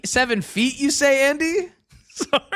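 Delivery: wheezy voice. Real, not acted. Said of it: "Please, I'm wheezing".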